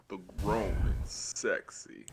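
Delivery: slow smooth radio DJ; radio host voice. Pretend. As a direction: drawl it like a late-night host. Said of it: "Do I sound like a radio host?".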